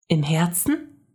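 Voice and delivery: put-on girl checking she understood; wondering question. A narrator's reading. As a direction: ask it with wonder. Mia asks, man confirms.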